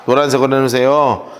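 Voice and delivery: normal talking voice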